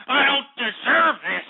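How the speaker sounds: slow, emphatic self-pity; aggrieved protest. Real, not acted. Host protesting his treatment, aggrieved protest. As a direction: draw the protest out, wronged.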